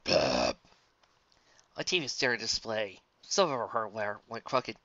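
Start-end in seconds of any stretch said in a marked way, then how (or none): 0.0-0.6 unladylike belch. Acted. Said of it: "unladylike belch of her own".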